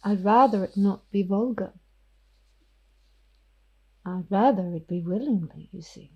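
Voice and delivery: hushed, menacing vampire whisper; whispering vampire Ophelia. Acted. Ophelia the vampire threatens Miss York, whispering.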